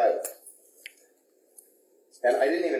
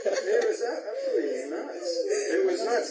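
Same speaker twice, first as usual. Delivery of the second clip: laughing through the words, high and breathless; can't stop laughing as you say it; 11 semitones higher than usual. Real, not acted. Laughing at the absurd shoot.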